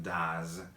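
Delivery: "does" said slowly with a voiced z ending; pronunciation of does. Shown as a demonstration. Teacher shows learners how "does" sounds, slow model pronunciation. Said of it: "pronunciación es".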